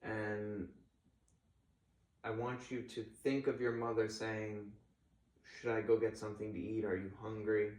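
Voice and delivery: gently walk them through the feeling; calm crisis counselor. Acted. Leads a visualization.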